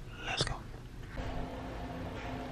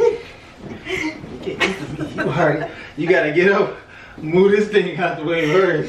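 laughing; 2 semitones higher, 5 dB louder, slower than usual. Real, not acted. Laughing during tickle fight.

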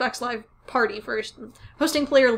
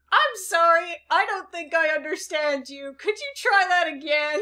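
raised, put-on polite confusion; mock polite incomprehension; 5 semitones higher, 4 dB louder than usual. Replying to a stranger in an Xbox lobby, mock polite confusion. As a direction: act lightly baffled, pitched up.

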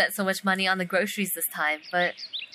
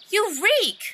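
disgusted; 8 semitones higher than usual. Acted. Reacting to partner's smell.

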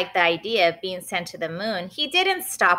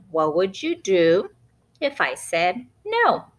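Benny's voice. Acted. Narrator quoting Benny, lightly in a cheeky boy voice. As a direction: lightly act the child's question. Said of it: "Benny asking Mom the question".

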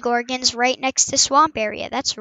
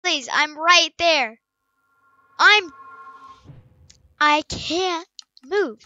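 mock pleading; 3 semitones higher than usual. Begging the monster to kill.

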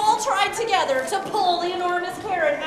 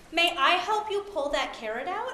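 mouse voice; 4 dB quieter than usual. Acted. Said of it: "in her biggest mouse voice".

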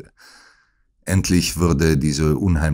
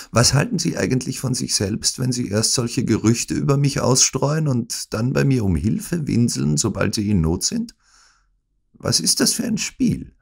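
high-pitched reproach; indignant scolding; 9 semitones higher than usual. Acted. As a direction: round on the helpless patient. Smith angrily confronts sick Holmes. (aufgebrachter Vorwurf)

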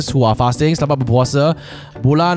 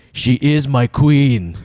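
Jon Snow impression; much slower than usual. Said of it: "gets paid half a million an episode to say".

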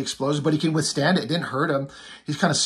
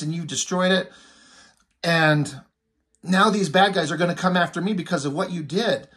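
mock angry rant; 3 semitones higher than usual. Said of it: "this guy's pissed off".

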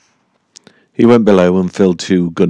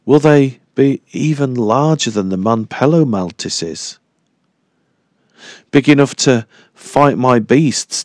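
higher, tense run of fearful questions; anxious inner worry; 5 semitones higher than usual. Acted. Dyke alone fearing giant insects, higher anxious questions. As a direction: let the worry climb question by question.

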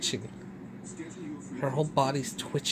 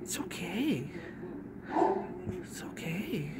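gentle whisper; 4 semitones higher, 8 dB quieter than usual. Real, not acted. Whispering to trembling dog.

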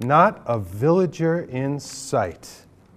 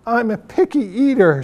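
goat voice; 7 semitones higher, 4 dB louder than usual. A narrator's reading. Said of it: "she said".

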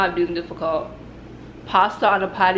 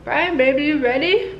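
calling out; 6 semitones higher than usual. Real, not acted. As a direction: sing out his name. Calling to boyfriend.

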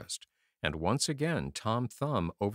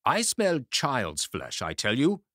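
slow, louder menacing ogre; ogre crying out; 4 semitones higher, 5 dB louder than usual. A narrator's reading. Ogre insisting to his wife, slow and loud. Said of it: "cried the ogre".

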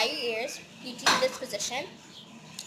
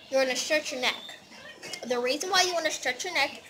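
chewing while talking; 2 semitones higher than usual. Real, not acted. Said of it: "sorry, I'm chewing bubble gum".

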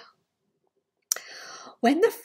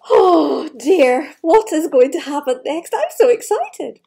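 excited; 6 dB louder than usual. Real, not acted. Reader excited to child.

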